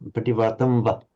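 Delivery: "pativatamba" with a very short final vowel; quiet model of "pativatamba", last a barely there; tiny final a. Shown as a demonstration. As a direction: clip the end of "pativatamba". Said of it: "just tiny little, uh, at the end".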